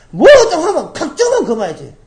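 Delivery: hammed-up father's catchphrase; mock father. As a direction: blurt it out the way father always did. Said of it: "우리 아버지 그런 소리".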